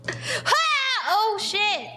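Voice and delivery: startled. Real, not acted. Startled, laughing.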